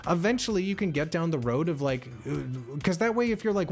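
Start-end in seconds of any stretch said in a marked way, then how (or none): none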